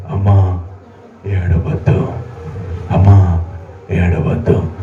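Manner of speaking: low, soft consoling voice; softly voiced Jesus comforting; tender comfort. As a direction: hush a grieving mother gently. Jesus comforts weeping mother.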